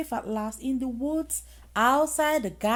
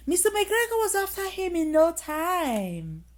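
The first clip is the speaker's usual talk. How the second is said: laughing; 5 semitones higher than usual. Real, not acted. Reader laughs over the sneeze.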